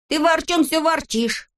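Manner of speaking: high teasing reproach; Neznaika's voice. A narrator's reading. Neznaika chiding Vorchun, high voice. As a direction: needle the grumbler.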